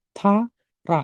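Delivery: "Tara" with a clear middle r; R pronunciation demo. Shown as a demonstration. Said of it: "Dibaca R ya".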